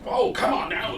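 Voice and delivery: put-on high, loud squeaky old halfling voice; old halfling urging his odd beasts on, high squeaky voice; old halfling man. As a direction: pitch way up as the flustered old cart driver. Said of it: "and he's like".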